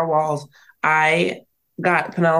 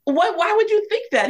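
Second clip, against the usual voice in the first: retold incredulity. Incredulous reply to husband.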